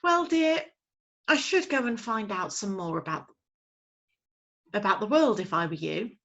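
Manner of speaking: sleepy mother owl. Acted. Mother owl advising her owlet. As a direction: soothe her child.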